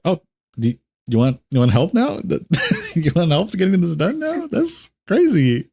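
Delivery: high, incredulous squeal through laughter; laughing mockery. Raid player mocking the leader's plea for help, laughing. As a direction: feign surprise, climbing up into a laugh.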